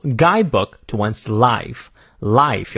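"life" stressed in a slow phrase. Shown as a demonstration. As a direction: lean slowly on "life". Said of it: "life要重读".

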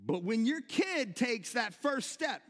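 ordinary delivery

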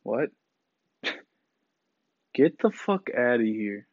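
slow, laughing "get out of here"; laughing disbelief. Real, not acted. Reacting to the girl's frat party story, laughing in disbelief. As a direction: brush it off through a laugh.

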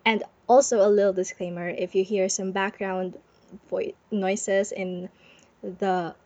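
muffled under a blanket. Real, not acted. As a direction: talk from under a warm blanket. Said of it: "recording this under a blanket".

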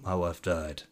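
soft, subdued confession with no sobbing; understated acted grief, voice dropped quiet; imitated sorrow. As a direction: play a broken man quietly admitting it. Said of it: "he's weeping".

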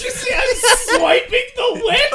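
high, loud, laughing yell; laughing shout. Real, not acted. Laughing at friend.

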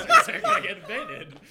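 cracking up while talking; words breaking into high laughter; laughing. Real, not acted. Giggling through dark joke.

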